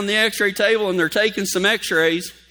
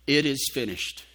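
hushed; 6 semitones lower, 7 dB quieter than usual. Acted. Repeating Jesus' words.

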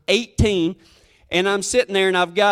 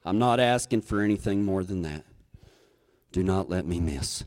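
desperate prayer; 11 semitones lower, 6 dB quieter than usual. Retold or imitated. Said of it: "I've never prayed so hard in my life".

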